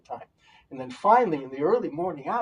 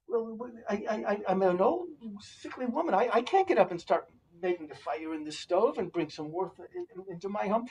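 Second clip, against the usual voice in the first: put-on old woman voice; 5 semitones higher than usual.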